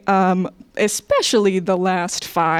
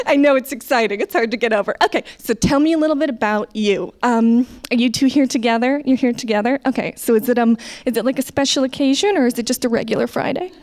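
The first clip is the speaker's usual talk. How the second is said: chirpy server small talk, slightly raised pitch; over-friendly American server; 3 semitones higher, faster than usual. Acted. Server chatting up a table for tips, gushy and over-friendly. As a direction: fawn over the customers with eager interest. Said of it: "if I was serving, like, you in America".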